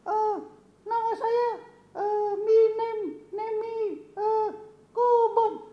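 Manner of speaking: very high puppet voice stumbling over English; a shy puppet groping for words; squeaky puppet voice, fumbling. Acted. Puppet Kobun answering Uncle Bob's question in broken English, high and hesitant.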